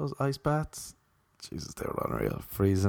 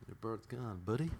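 mocking taunt; 11 dB quieter than usual. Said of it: "just mock him".

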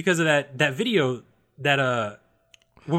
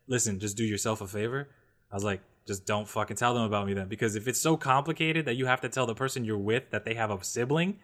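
low serious retort; 4 semitones lower, 5 dB quieter than usual. Retold or imitated. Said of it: "I genuinely was like".

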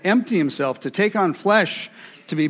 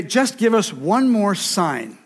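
mock Pharisee. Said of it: "and then they say".

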